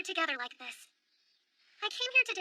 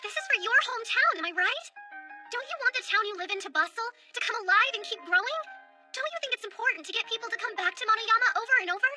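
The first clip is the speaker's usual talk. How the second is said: louder impassioned plea; overacted anime dub; 4 semitones higher, 4 dB louder than usual. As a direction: build up the appeal. Passionate plea to townspeople.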